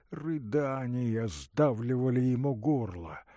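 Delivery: usual speaking voice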